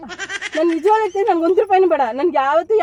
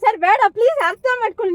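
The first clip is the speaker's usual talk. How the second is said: panicked pleading; 4 semitones higher than usual. Acted. Captive begs to be freed.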